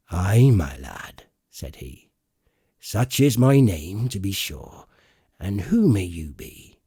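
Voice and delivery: lightly voiced hearty sea cook, slow; a hint of a genial old pirate; Long John Silver. Silver greets Jim.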